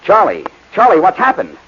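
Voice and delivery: detective imitating the wife's yell for his partner; retold yell. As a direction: replay her cry, half-acted. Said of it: "She yelled".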